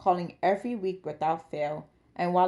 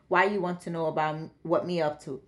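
daughter lightly imitating a Jamaican father; light mock Jamaican lilt; mock Jamaican impression. Daughter mimicking her Jamaican dad's voice. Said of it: "His daughter's impression of him had been note perfect".

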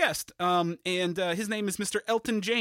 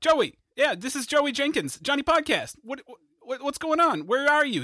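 calling out; 5 semitones higher, 3 dB louder than usual. Acted. Shouting over bad line.

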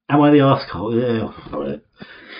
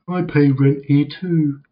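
Richmond voice; 4 semitones higher than usual. Retold or imitated. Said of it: "It's Richmond".

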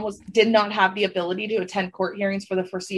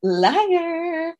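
mock accusing; 7 semitones higher than usual. Teasing chant of liar.

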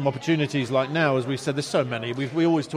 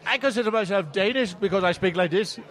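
Danish-Irish twang. Acted. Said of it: "I got a bit of a twang about my accent".

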